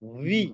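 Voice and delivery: "ভি" drawn out and rising, air between the lips; correct V sound. Shown as a demonstration. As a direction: model "ভি" with a long V. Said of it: "দুই ঠোঁটের মাঝখান থেকে বাতাস".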